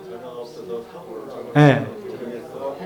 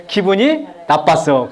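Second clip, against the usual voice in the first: slow feeling statement; slower than usual. Shown as a demonstration. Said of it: "감정을 표현해야죠".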